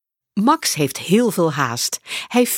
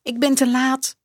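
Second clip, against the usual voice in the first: glum; 7 semitones higher than usual. Acted. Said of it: "zegt Max sip".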